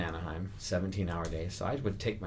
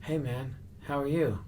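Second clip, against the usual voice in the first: higher-pitched in-character greeting; Andy Kaufman character; 6 semitones higher than usual. Retold or imitated. Jim Carrey greets a castmate walking by, in character. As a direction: imitate a star greeting in a high character voice. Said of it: "Jim Carrey was staying in the Andy Kaufman character".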